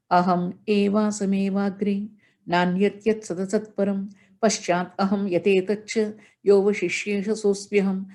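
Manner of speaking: even chanted Sanskrit verse; reciting the four verses to the assembly; shloka recitation. Acted. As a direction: intone each line steadily like scripture.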